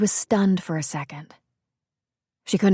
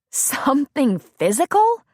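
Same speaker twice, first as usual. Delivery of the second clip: scornful echo; 8 semitones higher, 3 dB louder than usual. Acted. Bree mocking his excuse.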